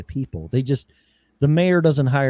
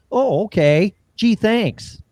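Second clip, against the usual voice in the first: sarcastic whisper; 7 semitones higher, slower than usual. Real, not acted. Sarcastic reply to tax penalty.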